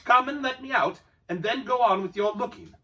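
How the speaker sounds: Bilbo crying out. A narrator's reading. Bilbo calling out to Gollum in the dark. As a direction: call out firmly across the cave. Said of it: "cried Bilbo".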